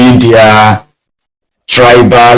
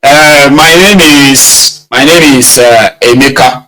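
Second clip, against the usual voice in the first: mock introduction. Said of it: "One person will just start".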